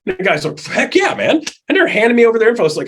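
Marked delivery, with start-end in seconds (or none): 0.6-1.4 eager yes. Retold or imitated. Guy eager for update.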